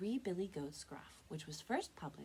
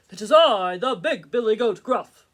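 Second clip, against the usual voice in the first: booming, higher-pitched shout of a mighty goat; big loud goat; 4 semitones higher, 20 dB louder than usual. Acted. Biggest goat answers the troll, booming voice. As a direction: announce yourself as loud as a troll. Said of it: "as loud as the troll's".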